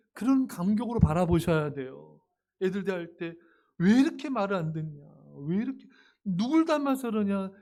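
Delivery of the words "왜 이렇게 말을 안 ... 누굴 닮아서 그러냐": irritated scolding. Pretend. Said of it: "답답해하고 짜증내지 마시고".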